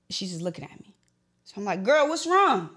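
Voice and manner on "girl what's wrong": high, pressing question to a friend; mock-alarmed plea, falling at the end; reenacted worried demand. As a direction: demand an answer from your friend, voice pitched up. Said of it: "I'm gonna reenact this for you".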